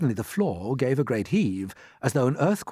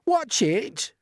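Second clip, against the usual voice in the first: sharp raised warning; spider's warning cry; 11 semitones higher, 3 dB louder than usual. Acted. Miss Spider warns as the room lurches. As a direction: call out at the lurch. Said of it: "cried Miss Spider".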